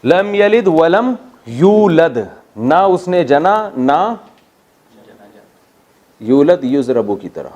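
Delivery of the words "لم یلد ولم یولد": slow recitation. Shown as a demonstration. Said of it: "recites the verse slowly".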